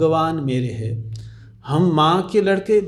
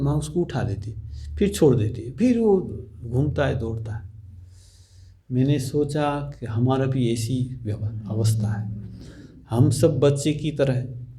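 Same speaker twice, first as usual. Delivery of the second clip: ordinary talk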